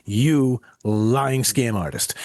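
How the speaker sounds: hammed-up outraged accusation, drawn out at the end; mock indignation. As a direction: call out a con man in mock outrage, stretching the final insult. Acting out reply to a scammer.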